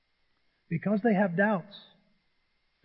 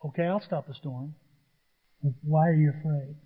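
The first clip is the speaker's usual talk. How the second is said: calm drowsy Jesus; 3 semitones lower than usual. Retold or imitated. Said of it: "he's like".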